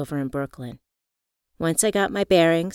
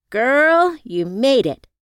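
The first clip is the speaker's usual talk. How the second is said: calling out; 8 semitones higher, 7 dB louder, slower than usual. Acted. Riva calls from a distance.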